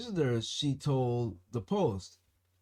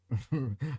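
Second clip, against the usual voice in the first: breaking into a laugh. Real, not acted. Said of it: "I can't do it without a smile on my face".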